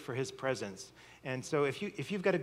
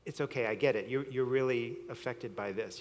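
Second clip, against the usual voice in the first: reassuring; 3 semitones lower than usual. Shown as a demonstration. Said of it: "the proper response to that is".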